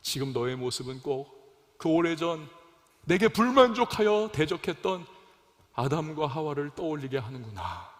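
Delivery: subdued, let-down murmur to oneself; God's disappointed voice. Acted. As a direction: lightly voice a saddened, reproachful God. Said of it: "하나님께서 아마도 생각하실 것 같아요".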